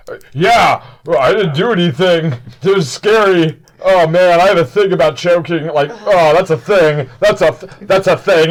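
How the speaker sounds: lightly voiced flustered character, repeating himself; flustered hero. Plays a flustered bystander.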